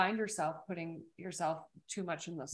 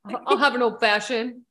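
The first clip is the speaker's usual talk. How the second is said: lower voice; 10 dB louder than usual. Retold or imitated. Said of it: "my voice gets lower".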